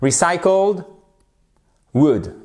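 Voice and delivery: "Recycled", pause, then short lax "wood"; brief English oo in "wood"; correct English pronunciation. Shown as a demonstration. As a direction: model "Recycled wood" word by word. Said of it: "Attention, hein".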